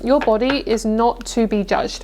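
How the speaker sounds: slow, each word weighed out; slow, deliberate message. Shown as a demonstration. Reader slowly delivers the message to viewers, deliberately paced. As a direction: lay it down slowly so it sinks in. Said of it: "What I'm hearing is".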